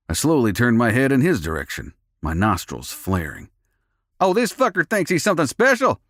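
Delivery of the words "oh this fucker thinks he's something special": high roaring cowboy voice. A narrator's reading. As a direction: roar it like a brawler. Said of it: "another roared".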